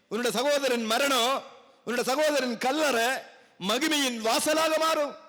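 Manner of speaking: preacher's declaration in short, separated phrases; emphatic preaching. Real, not acted. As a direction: proclaim each phrase firmly to the congregation. Preaches promise to congregation. (உறுதியான பிரசங்க முழக்கம்)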